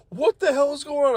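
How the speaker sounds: high-pitched baffled question; retold bewilderment. Coworker caught between boss and worker, imitated bewilderment. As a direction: imitate utter confusion, pitch way up.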